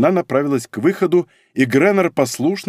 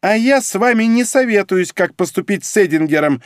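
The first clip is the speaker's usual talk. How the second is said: shouting back; 7 semitones higher than usual. A narrator's reading. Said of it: "крикнула в свою очередь Янковская". (громко кричит в ответ)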